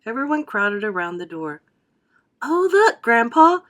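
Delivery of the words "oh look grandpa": put-on high, loud boyish cry of delight; excited cry. A narrator's reading. Charlie calls Grandpa to look, thrilled and loud. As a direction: call Grandpa over, thrilled. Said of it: "cried Charlie".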